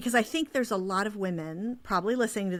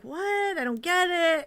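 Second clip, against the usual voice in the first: high, baffled guy; a touch of puzzled man voice; woman imitating confused husbands; 10 semitones higher, 5 dB louder than usual. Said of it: "the guys are like".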